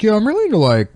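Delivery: high, mocking dumb-fan voice; mocking zombie fan. Mocking fans of zombies with a high dumb voice. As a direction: sneer it up high like a clueless fanboy. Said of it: "all these fucking retards were like".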